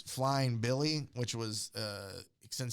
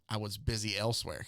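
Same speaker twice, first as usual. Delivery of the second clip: understated rude reply, slightly low; retold curt dismissal; rude brush-off; 3 semitones lower than usual. Superman brushing off the news reporter's question, mildly rude. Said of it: "you know, rude".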